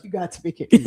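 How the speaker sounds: loud, incredulous; loud disbelief. Retold or imitated. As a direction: blurt it in shock. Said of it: "I was like".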